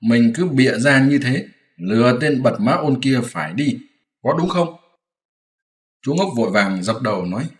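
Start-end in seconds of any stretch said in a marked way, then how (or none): 0.0-4.8 a teasing hint of the lying pig; mocking imitation. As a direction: parrot his own lie back at him mockingly. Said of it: "Còn nói".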